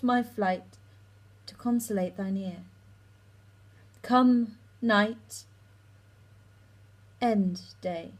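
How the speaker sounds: Shakespearean monologue, delivered with dramatic swells and pauses; monologue reading. Acted. Student performing Helena's speech for voice class, dramatic monologue reading. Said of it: "I'll read it through once".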